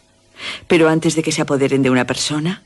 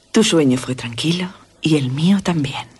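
breathy hushed whisper, no voice. Acted. Carmila whispering to Laura about their sleep, hushed whisper. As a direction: whisper it like a secret at night.

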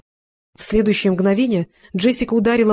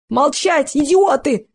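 выше и громче, срываясь на крик; заорать на всех: «Молчать, идиоты!»; 6 semitones higher, much slower than usual. A narrator's reading. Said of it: "вскричал Эл". (истеричный крик главаря)

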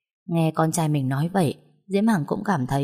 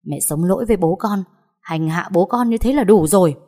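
angry scolding. Acted. Son scolding his mother to defend his father, angry. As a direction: tear into her without a pause. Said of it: "nổi giận mắng mẹ".

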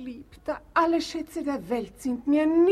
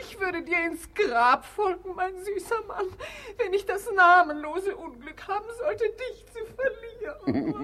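hammed-up weeping; 5 semitones higher than usual. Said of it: "Ihre Tränen sind verfrüht".

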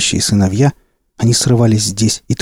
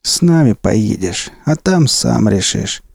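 slow, weighty decision; slow boss voice; slower than usual. Acted. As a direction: lay it down unhurried. Dean decides calmly.

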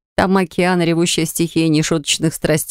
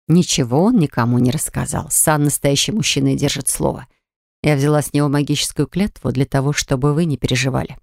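defensive; 3 semitones lower than usual. Acted. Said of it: "оправдывалась Мурена Лиза".

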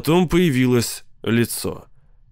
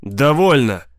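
barked; 3 semitones higher, 4 dB louder, slower than usual. Acted. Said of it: "рявкнул Сид".

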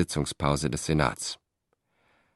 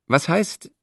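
higher, squeaky little voice; 12 semitones higher than usual. A narrator's reading. Ranunculus reports to Cicero, in a squeaky voice. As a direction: pipe it up like a small man. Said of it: "mit seiner piepsigen Stimme".

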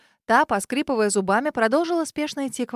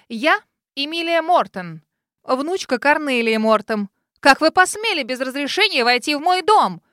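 higher, louder, slow and firm, building; indignant; 3 semitones higher, 6 dB louder than usual. Acted. Girl names herself to the intruder, indignant. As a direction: stand your ground in your own house.

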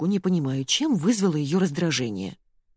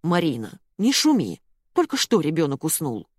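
plain reading voice

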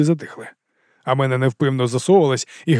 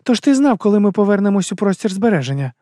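higher female voice, firm questioning; a woman pressing for the truth, pitched up; Арада, вищий жіночий голос; 7 semitones higher than usual. A narrator's reading. Arada questioning. (вищий жіночий голос, наполегливе запитання)

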